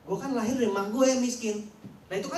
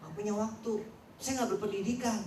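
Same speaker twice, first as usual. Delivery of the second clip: mock excuses; 6 dB quieter than usual. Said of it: "Bicaranya soal teknis".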